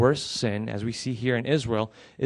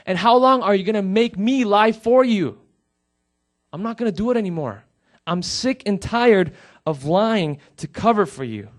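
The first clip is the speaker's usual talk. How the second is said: higher and louder, a sister fed up and near tears; angry tearful outburst; 8 semitones higher, 7 dB louder than usual. Retold or imitated. Crying sister confronts her lying brother, higher and louder in anger. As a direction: let it burst out hurt and furious. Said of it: "Half angry, half sad, crying, she says".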